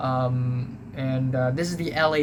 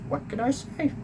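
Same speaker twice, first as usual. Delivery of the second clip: mock modesty; 11 semitones higher than usual. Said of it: "I love acting".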